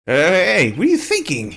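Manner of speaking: high, loud panicked hey; alarmed loud call. Acted. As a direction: rush in to stop her, voice rising. Voicing Phoenix alarmed.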